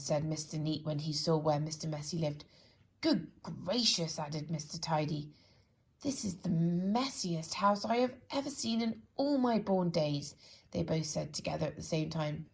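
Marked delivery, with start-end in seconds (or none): 3.0-4.2 drawn-out, slow "Good gracious"; slow aghast exclamation. Acted. Shocked character. 6.0-10.4 put-on fussy old gents appalled; indignant amazement. Both characters exclaim.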